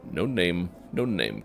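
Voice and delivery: mild sing-song repeat; lightly sing-song dustman. Acted. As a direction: lilt it like a child's rhyme. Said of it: "curious sing-song voice".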